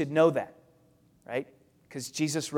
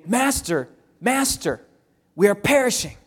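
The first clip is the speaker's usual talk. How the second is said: higher-pitched urgent plea, mildly acted; frantic disciples; 5 semitones higher than usual. Disciples waking Jesus in the storm, mildly frantic. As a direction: cry for help with a touch of panic. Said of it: "there's many frantic voices".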